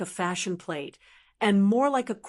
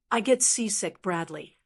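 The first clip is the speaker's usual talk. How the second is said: dry. Acted. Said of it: "I said dryly".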